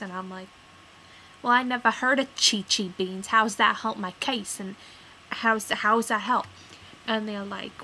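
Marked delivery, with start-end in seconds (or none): 1.4-6.5 louder, exasperated protest; indignant retort. Retold or imitated. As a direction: push back hard at the clerk. Acted argument with clerk.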